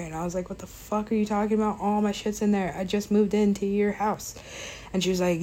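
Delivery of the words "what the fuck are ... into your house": retold angry outburst. Angry quote to friend at door.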